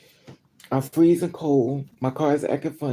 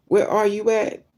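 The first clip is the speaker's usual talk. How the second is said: shouting; 6 semitones higher, 3 dB louder than usual. Retold or imitated. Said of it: "I'm screaming at him on the phone".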